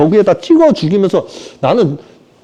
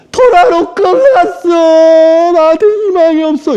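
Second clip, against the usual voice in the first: mock sobbing, much higher and louder, very slow; 10 semitones higher, 3 dB louder, slower than usual. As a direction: ham up a hopeless crying Paul. 바울이 우는 흉내. (울먹이며 절망하는 바울 흉내)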